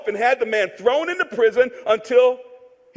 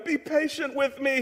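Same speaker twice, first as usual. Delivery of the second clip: soft, restrained plea; begging; 2 semitones higher, 7 dB quieter than usual. A narrator's reading. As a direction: plead quietly for patience. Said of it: "he begged".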